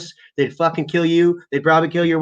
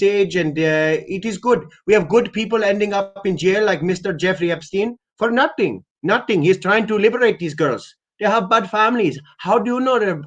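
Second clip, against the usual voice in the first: higher, slowed, hammed-up caller pitch; mock Rajesh caller; 5 semitones higher than usual. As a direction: play the shady caller selling it earnestly. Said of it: "they're gonna be like".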